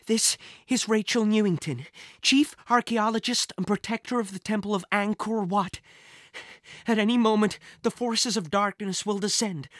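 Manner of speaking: record an urgent warning for whoever finds it; lightly voiced urgent archaeologist. Figure's recorded urgent message.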